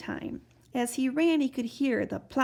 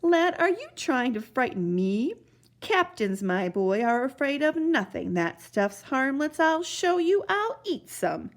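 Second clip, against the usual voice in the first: boastful captain; 3 semitones higher than usual. Acted.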